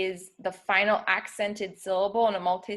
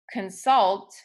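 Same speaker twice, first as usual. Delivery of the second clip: consult said with the stress on sult, con-SULT; stress on second syllable; 4 dB louder than usual. Shown as a demonstration. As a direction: lean on the last syllable of consult. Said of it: "So in the word".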